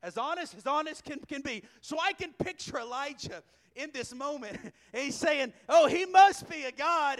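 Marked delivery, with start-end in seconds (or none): 5.7-7.2 louder mock awe, barely holding back a laugh; snickering. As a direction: tease them with a straight face that's about to crack. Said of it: "he's snickering the whole time".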